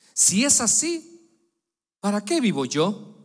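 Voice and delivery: high, loud anguished cry; Rebekah's lament. Retold or imitated. A pastor voicing Rebekah's anguished cry to the congregation. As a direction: Rebekah crying out in distress. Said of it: "Y dijo".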